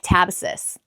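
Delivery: American-accented pronunciation of "catabasis". Shown as a demonstration. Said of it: "sounds better in an American accent".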